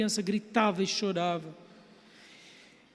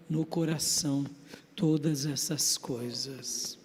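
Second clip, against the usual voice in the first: hushed reverence; 5 semitones lower, 5 dB quieter, slower than usual. Acted. Preacher softens for reverent point.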